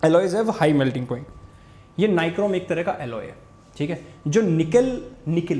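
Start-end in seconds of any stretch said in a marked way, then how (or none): 0.0-2.0 each word drawn out for note-taking; teacher dictating slowly; slow dictation. Shown as a demonstration. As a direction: spell it out slowly so they write it down. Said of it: "यहाँ पे लिख लो".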